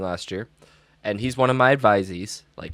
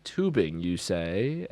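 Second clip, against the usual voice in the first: internet-meme voice; 3 semitones lower, 4 dB quieter, much slower than usual. Retold or imitated. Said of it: "like, what you would get on the internet".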